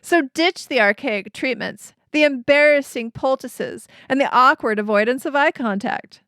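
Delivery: slick TV drug commercial announcer; pharmaceutical ad voice. Pretend. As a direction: sell it like a pharma ad. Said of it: "I'm gonna do my pharmaceutical ad voice".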